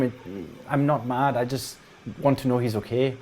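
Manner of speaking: a touch of pleading, faltering between phrases; worried parent character. Acted. Parent pleads for missing son.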